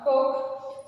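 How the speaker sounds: "coke" with the R left silent. Shown as a demonstration. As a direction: say "coke" for cork, no R sound. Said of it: "Here R is silent".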